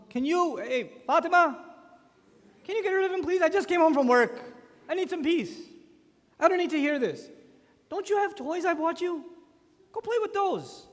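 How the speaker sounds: loud, high, exasperated calling out; mock-frustrated father shouting to Fatima; fed-up yell. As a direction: yell across the house for someone to take the kid away. Father yelling for wife to take child.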